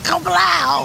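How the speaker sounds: high mock news-lady exclamation; a high squeal of kablow; imitating news lady. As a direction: chirp it like a TV reporter. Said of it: "news lady that said".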